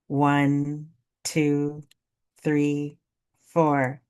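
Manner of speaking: steady breath-exercise count, each number held; guided breathing. Acted. Breathing coach leading listeners through box breathing, steady measured count. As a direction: count evenly on a level tone with pauses.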